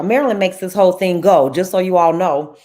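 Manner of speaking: loud, quick enthusiastic praise; excited praise. Real, not acted.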